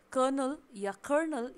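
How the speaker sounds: कर्नल first with no r, then with a clear r; कर्नल said both ways, r dropped then sounded; both pronunciations. Shown as a demonstration. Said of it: "दोनों ही correct है". (कर्नल दोनों तरह से, पहले बिना आर, फिर आर के साथ)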